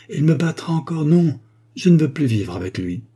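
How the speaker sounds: high-pitched protesting wife; acted outburst of a fed-up wife; distressed refusal. A narrator's reading. Wife refuses to stay with husband.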